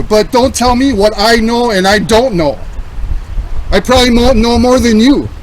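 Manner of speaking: firm and heated, leaning in; calm turning angry. Real, not acted. Heated reply to the officer.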